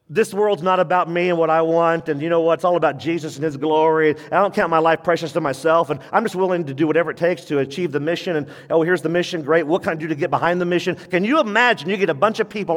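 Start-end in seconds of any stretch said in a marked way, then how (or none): 0.1-11.0 fast, higher eager believer. Pretend. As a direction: rattle it off with zeal. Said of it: "Every professing believer goes".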